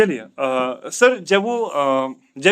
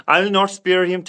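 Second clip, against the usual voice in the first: very slow and clear; slow model sentence; much slower than usual. Shown as a demonstration. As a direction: spell it out word by word for the learner. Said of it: "teacher models answer". (धीरे-धीरे समझाते हुए)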